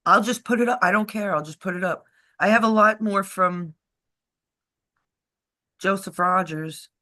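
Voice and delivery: talking funny from dental work; words slurred by a numb mouth; numb mouth after dental work. Real, not acted. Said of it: "If I'm talking funny, it's 'cause I have work done in my mouth".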